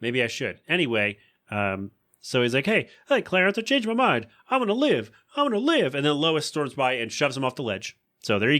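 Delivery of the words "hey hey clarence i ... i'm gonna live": high, elated shouting; overjoyed he changed his mind; hammed-up joyful George Bailey; mock joyful.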